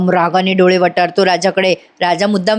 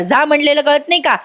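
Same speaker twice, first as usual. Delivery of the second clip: mock angry yell; 6 semitones higher than usual. Yasha yelling at Dhanya to go, mild mock yell. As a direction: snap mildly, pitch lifted, as a storyteller's yell. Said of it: "Yashada आता जोरात ओरडतो धन्यावर".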